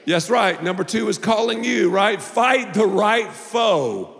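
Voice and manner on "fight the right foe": slow emphatic. Shown as a demonstration. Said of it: "Can't believe I said that".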